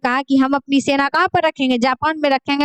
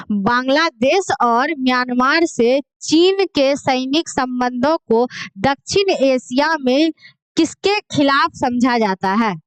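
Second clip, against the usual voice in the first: slow dictation; slower than usual. Acted. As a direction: question read slowly and evenly for students. Reads long quiz question slowly. (धीरे-धीरे बोलकर प्रश्न लिखवाना)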